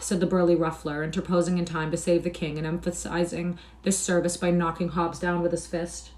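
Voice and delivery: clear, measured storybook reading; story narration. A narrator's reading. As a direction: narrate with crisp, projected diction. Reads the story aloud.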